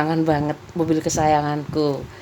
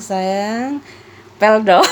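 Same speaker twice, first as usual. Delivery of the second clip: sweet-talking; 3 semitones higher, 4 dB louder, much slower than usual. Retold or imitated. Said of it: "dulu aku suka panggil sayang".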